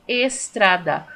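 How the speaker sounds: estrada in three measured beats, es-tra-da; syllable by syllable. Shown as a demonstration. Teacher writing down estrada, sounding it by syllables. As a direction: sound out each piece of estrada. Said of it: "Trissílaba".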